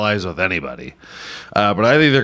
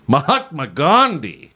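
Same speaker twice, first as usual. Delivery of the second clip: cartoon character line; 2 semitones higher than usual. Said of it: "something you'd hear a cartoon character say".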